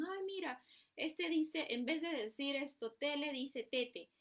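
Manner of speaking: mocking relative. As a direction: poke fun at the child's mispronunciation. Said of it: "se empiezan a burlar".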